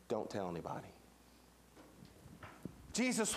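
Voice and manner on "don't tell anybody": low, soft confidential command; hushed secretive instruction. Acted. Jesus telling the healed leper, hushed and confidential. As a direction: keep it down like a secret.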